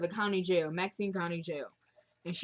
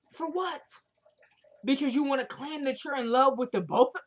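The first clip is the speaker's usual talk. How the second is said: higher-pitched mock indignation; indignant comeback, pitched up in places; indignant retort; 3 semitones higher than usual. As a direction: act out fed-up disbelief. Acting out an indignant retort to him.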